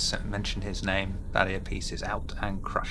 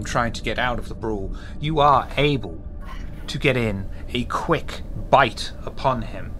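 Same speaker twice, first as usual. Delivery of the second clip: game master narration; 4 dB louder than usual. Acted.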